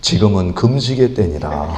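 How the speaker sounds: a hint of God's solemn command to fast. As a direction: speak as God handing down a decree. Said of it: "하나님은 이렇게 얘기하세요".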